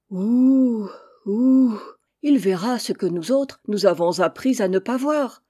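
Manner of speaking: a pompous owl pronouncing wisdom; owl's riddle. Acted. Eagle-owl proclaims a riddle to the mother, loud hooting owl. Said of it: "s'exclama ce grand-duc".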